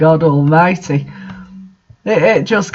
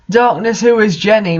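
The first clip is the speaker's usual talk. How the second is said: incredulous question. Real, not acted. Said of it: "We haven't even been introduced".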